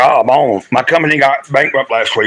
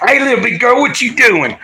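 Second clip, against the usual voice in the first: high sing-song pet voice; doggy talk; 7 semitones higher than usual. Real, not acted. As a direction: coo up high at the puppy. Greeting his dog on live stream.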